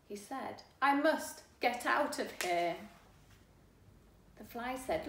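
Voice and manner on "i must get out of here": louder, urgent fly voice; frightened fly wants out; fly in a panic. Acted. Fly tells the boy it must escape, urgent.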